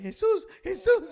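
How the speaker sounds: put-on high, loud cry of the kid; mock yelling. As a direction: call out like a kid yelling for help. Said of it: "The kid keeps yelling".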